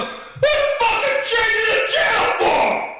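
high furious yell at the wife; angry shout. Retold or imitated. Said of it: "And I go".

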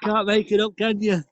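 mock northern bloke. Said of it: "just bog standard northern".

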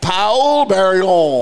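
"Paul Barillon" drawn out slowly, the J dropped; slow French try. Shown as a demonstration. Host trying the French name on his co-host, slow and careful. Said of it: "then the J is silent if he's French".

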